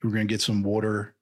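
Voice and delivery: mock Philly local chatting; surferish Philly accent. Shown as a demonstration. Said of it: "a little surferish sometimes".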